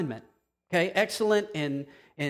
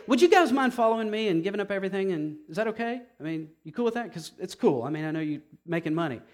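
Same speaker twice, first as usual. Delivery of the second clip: mock timid Jesus; faster than usual. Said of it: "He didn't say".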